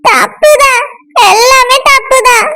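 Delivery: weepy, drawn-out self-pity; tearful. Acted. Crying friend says everything is wrong, tearful. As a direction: stretch the words as if crying. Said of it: "இப்படி உட்கார்ந்து அழுதுட்டு இருக்க".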